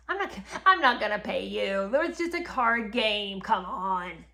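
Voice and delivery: a whiny, brushing-off voice, only lightly put on; mock petulant refusal. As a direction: play the sulky king waving off his debt. The king mocked refusing to pay.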